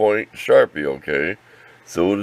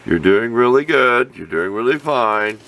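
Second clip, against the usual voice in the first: sing-song encouraging teacher, higher and louder; kindergarten teacher voice; 5 semitones higher, 3 dB louder than usual. Acted. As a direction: praise them like a patient kindergarten teacher. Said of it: "Sound like a kindergarten teacher".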